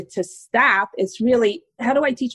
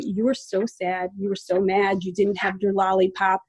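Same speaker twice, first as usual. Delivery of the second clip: put-on softer, calm words to an upset child; gentle soothing parent; 3 semitones lower, 4 dB quieter than usual. Shown as a demonstration. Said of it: "You say".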